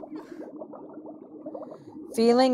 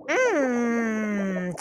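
long thoughtful "mm"; savouring hum; 3 dB quieter than usual. Acted. Birdie considers eating the school nurse, a savouring hum. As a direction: hum as if eyeing a snack.

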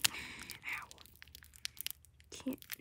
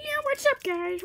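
excited; 6 dB louder than usual. Real, not acted. Excited vlog intro greeting.

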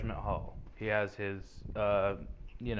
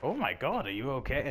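mock Papyrus concern; 3 semitones higher than usual. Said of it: "Papyrus is like".

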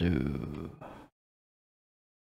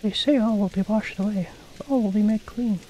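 much higher pious villager voice; 11 semitones higher than usual. Acted. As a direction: pitch it way up like a devout townsperson. Voices villagers reading dialogue.

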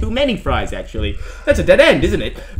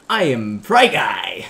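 mock hero declaration; 5 semitones lower, 3 dB louder, much slower than usual. Declares self-made hero name.

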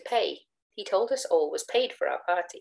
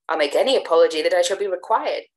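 earnest apology; 7 dB louder than usual. Acted.

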